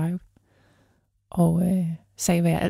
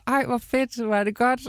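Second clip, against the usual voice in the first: a high, delighted exclaim; excited shout; 5 semitones higher than usual. Retold or imitated. Retelling how she called back to the woman on the street, high and delighted. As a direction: burst out in happy surprise. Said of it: "jeg råber".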